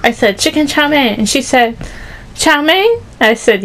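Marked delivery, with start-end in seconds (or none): 0.4-1.2 put-on higher-pitched order, slight Asian accent; hint of Asian accent. Retelling the food order, slight Asian accent. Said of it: "you had an Asian accent". 2.3-2.9 higher, rising question in a mock Asian accent. Imitating the worker checking the order, questioning Asian accent. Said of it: "you had an Asian accent".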